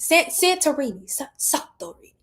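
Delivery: trying out an Italian accent on Santorini; put-on accent. Shown as a demonstration. Streamer practising a place name, put-on Italian accent. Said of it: "I wanna put an accent".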